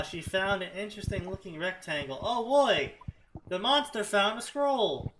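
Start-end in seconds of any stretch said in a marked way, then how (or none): 2.2-5.1 mock excitement. Mock excitement reading fanfic.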